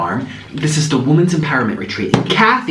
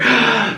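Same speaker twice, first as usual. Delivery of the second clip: gasp; 7 semitones higher than usual. Real, not acted. Storyteller gasps before continuing.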